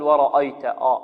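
ورأيت with a thick hamza; wrong heavy hamza. Retold or imitated. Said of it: "ولا نقول". (تفخيم الهمزة خطأ)

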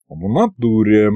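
drawn out and absent, mind elsewhere; a distracted imp drawling over a map; detached drawl. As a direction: drawl it distantly, not really listening. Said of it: "как-то отстранённо протянул он".

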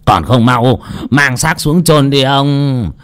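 high, slow, furious bellow; barked order. Acted. Master ordering the servants to bury the body, slow and furious. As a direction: hammer out the order in rage. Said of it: "mà quát".

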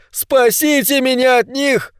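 high, slow, strained cry for help; desperate wail. A narrator's reading. Pavka, surrounded on the street, wails for rescue in high terror. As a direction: wail as if being torn apart.

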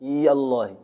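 إي الله with sukun on the ya, no hamza; ya kept silent. Shown as a demonstration. Teacher repeating the sakin-ya form. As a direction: say إي الله running ya into lam. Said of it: "وإبقاء الياء ساكنة".

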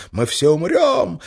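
slow, high, drawn-out wail. Acted. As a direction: wail it in mock terror. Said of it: "истошно вопя".

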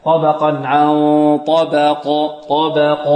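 thin "ba", heavy "qaf" in طبق; ترقيق الباء وتفخيم القاف. Shown as a demonstration. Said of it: "والباء مرققة والقاف". (تلاوة طبق بباء مرققة وقاف مفخمة)

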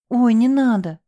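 a scared cry of "don't"; frightened. A narrator's reading. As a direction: beg in sudden fright. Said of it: "испугалась девушка".

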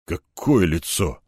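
low, slow, scared mumble; lightly voiced frightened colonel stammering. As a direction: stutter it out in fear. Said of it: "заикаясь, пробормотат он".

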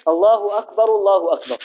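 first أكبر takes -ru straight into الله; first R voweled, joined. Shown as a demonstration. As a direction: say akbaru-llahu akbar as one linked phrase. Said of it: "ويصل بينهما".

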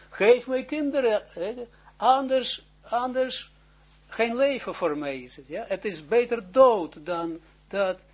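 retold shout. Rachel shouting at Jacob for children, loud desperate yell. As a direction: yell it at him as if life depends on it. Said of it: "Zij schreeuwt naar hem".

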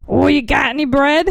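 mild, joking British accent; attempted British accent. Shown as a demonstration. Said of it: "So can you try your British?".

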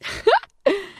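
high manic cackle; shrill mad laugh. Acted. Alter ego strangling the doctor, manic cackle. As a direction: cackle wildly. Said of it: "смеялась девушка".

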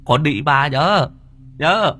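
high, indignant bluster; shrill-pitched angry tirade, building up; ranting old man. Acted. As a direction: puff up and rant like a wounded pride. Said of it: "ngoạc mồm".

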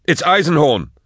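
high, loud, urgent; excited shout. Acted. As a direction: blurt out the shocking news.

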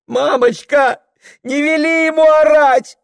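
put-on a tearful child begging mama; crying little girl. A narrator's reading. Little daughter begging her mother to stop him, high tearful wail.

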